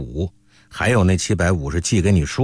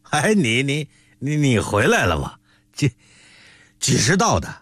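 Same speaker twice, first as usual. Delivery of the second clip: put-on a drunk uncle slurring and stammering, pitched up; drunken stammer; 4 semitones higher than usual. A narrator's reading. Drunk uncle greeting his returned nephew, stammering. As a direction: stumble over the words like a tipsy old man. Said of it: "吃得满脸通红".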